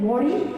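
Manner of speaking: "worry" with an aw vowel, as in "wore-ee"; wrong vowel. Shown as a demonstration. Teacher recalls the mistake in worry, wrong vowel. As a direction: say "worry" with a rounded O, rising. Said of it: "not do not worry".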